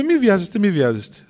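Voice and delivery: emphatic, repeated hushing of a protest; brushing off haste. Retold or imitated. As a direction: wave away the hurry. Elder brushing off the nun.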